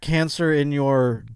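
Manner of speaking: doctor. Acted. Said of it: "It does sound like a doctor".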